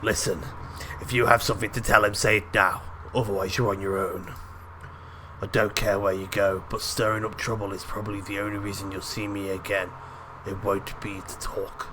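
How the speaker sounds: lightly put-on British accent. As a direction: voice him with a hint of British. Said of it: "I don't know why he's British".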